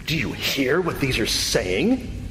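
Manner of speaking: slow, indignant British delivery; mock-British questioning, drawn out; British accent. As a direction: put on a British accent for the priests. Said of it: "I just went British on you".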